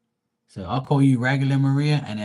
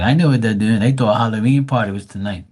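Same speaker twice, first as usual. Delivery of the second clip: louder, confident punchline; 7 dB louder than usual. Retold or imitated. Answering his sister about the women, loud punchline. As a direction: deliver it like the obvious answer.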